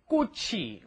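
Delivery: 꽃이 run together as "kko-chi"; pronunciation demo. Shown as a demonstration. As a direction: model 꽃이 with a hard opening k and "chi" second syllable. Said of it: "Make sure your pronunciation is".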